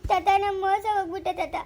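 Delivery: tearful, rising cry to grandfather. Acted. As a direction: sob out the betrayal. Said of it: "ಯಾಕೆ ಅಳ್ತಾ ಇರೋದು". (ತಾತನ ಬಳಿ ಅಳುತ್ತಾ ಮೋಸದ ದುಃಖ)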